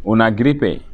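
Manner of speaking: "Una gripe" slow and evenly spaced; slow model pronunciation. Shown as a demonstration. Teacher models a new term for learners, slow and careful. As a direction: say "Una gripe" slowly, word by word.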